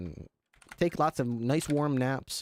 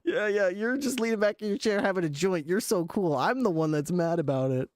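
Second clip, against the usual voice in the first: sarcastic; 4 semitones higher than usual. Retold or imitated. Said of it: "sarcastic reply".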